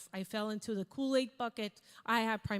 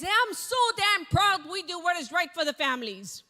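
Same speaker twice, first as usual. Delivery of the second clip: higher and louder, fired-up yelling; impassioned shout; 5 semitones higher, 6 dB louder than usual. Retold or imitated. Colleague pitching in a packed cafeteria, shouting with passion. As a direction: preach it with everything you've got. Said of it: "His voice is raising up, going up".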